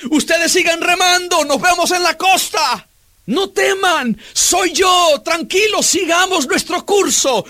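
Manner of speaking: calm the frightened disciples from afar; reassuring Jesus. Acted.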